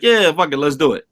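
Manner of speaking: carefree. Retold or imitated. Retold carefree decision.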